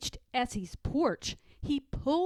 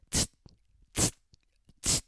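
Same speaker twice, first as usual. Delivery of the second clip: tsk tsk; faster than usual. A narrator's reading.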